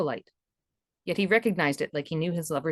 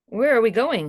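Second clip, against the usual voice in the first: Ralph's voice; 4 semitones higher, 5 dB louder than usual. Acted. Ralph asks, puzzled.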